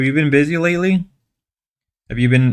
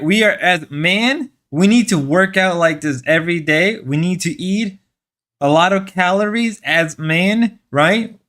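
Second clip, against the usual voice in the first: slightly raised mock-motivational pitch; sarcastic; 3 semitones higher than usual. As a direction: preach manliness as a joke, mock earnest. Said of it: "I gotta stop being sarcastic".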